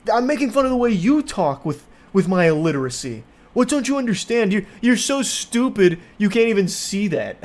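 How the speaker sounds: high, put-on whiny dumb voice; mock dumb coworker. Mimicking the coworker's defence of his tweaking, high whiny mockery. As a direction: play him as a proud idiot.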